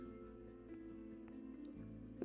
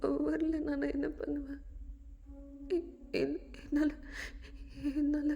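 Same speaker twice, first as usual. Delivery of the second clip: sobbing plea; 3 semitones higher than usual. Acted. Jameen crying in Daya's arms, broken and tearful. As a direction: fall apart in the hug.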